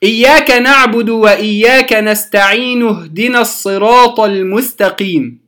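measured Quranic recitation of the verse. Shown as a demonstration. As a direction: recite it in tajweed style. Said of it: "مثلًا لما أقول كلمة". (تلاوة مجودة للآية)

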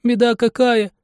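put-on high, wailing boy's voice; a young apprentice wailing in distress. A narrator's reading. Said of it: "Он простонал".

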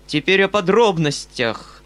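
Foma giving parting counsel. Acted.

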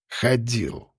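reluctant. A narrator's reading. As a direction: squeeze the word out unwillingly. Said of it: "через силу ответил сирота".

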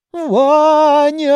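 calling out high and loud; relieved cry on seeing him; joyful shout. Acted. Grandmother bursting in, shouting Vanya's name.

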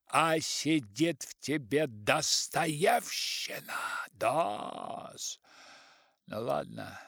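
slow, lightly voiced sermonizing elder; preachy old writer. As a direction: preach to him slowly.

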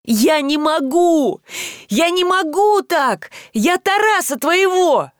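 высоко и медленно, с отчаянием; выдавить признание через силу; надрывно. A narrator's reading. Пьяная истерика Таля. (пьяный Таль в истерике перед Янкой)

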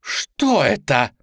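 slow, drawn-out wail of alarm; witches wailing. A narrator's reading. Witches panicking at their mirrors, wailing. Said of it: "завопили ведьмы".

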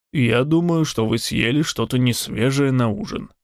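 dry, deadpan jab; dry sarcasm. Acted. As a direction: say it dryly, teasing. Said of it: "сухо ответил Сион".

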